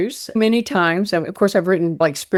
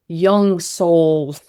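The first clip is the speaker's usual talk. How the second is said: laughing; much slower than usual. Real, not acted. Laughs at own code word.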